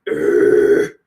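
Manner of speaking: low rough imitated bear grunt; bear growl. Imitating the bear heard from the hill, low growl. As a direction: growl it like a distant grizzly.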